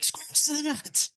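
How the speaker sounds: high, drawn-out mock yell; imitated yelling. Host imitating woman at department store, high mock yell. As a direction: squeal it slowly like a held-back shout. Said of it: "like, yelling and she's like".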